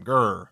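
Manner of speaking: short, loud "grr"; mock angry growl. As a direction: growl like an angered forest creature. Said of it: "it angers them".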